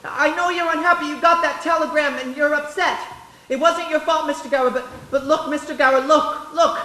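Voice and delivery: put-on boy pleading with his angry boss; pleading, upset. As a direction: beg him to listen. Boy pleads while being hit.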